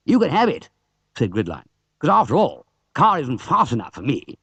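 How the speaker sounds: a hint of a dismissive driver; shrugging off the car; lightly voiced racer. Gridline giving up car.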